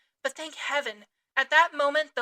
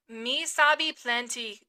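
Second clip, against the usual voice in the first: slow, mild cannibal grunt; 3 dB louder, slower than usual. Acted. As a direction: grunt it back between puffs of the pipe. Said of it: "grunted Queequeg".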